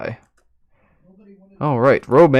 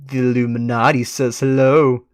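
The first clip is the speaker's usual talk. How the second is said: ominous announcement; 5 dB louder than usual. Acted. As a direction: announce it like a secret society. Declaring the Illuminati.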